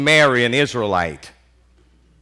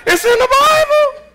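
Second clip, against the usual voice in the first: much higher and louder insistence; emphatic; 6 dB louder than usual. Real, not acted. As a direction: insist it's scripture, pitch up. Repeats defence, high and loud.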